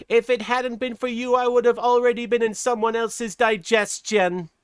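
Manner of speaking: high-pitched little mouse voice; put-on squeaky mouse character; cartoon mouse. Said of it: "and the mouse says".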